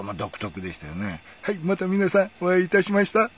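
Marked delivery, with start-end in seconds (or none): 1.4-3.3 high, put-on host voice, a little louder; lightly hammed TV presenter greeting; imitating Yodogawa's greeting. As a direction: mimic the famous film host's cheery opening. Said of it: "みたいな感じで始まってね".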